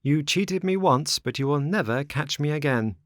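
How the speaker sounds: put-on high, firm young puppet; high-pitched rebuke; scornful Pinocchio. A narrator's reading. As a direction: refuse them in a high, firm voice. Pinocchio rebuffs the beggars.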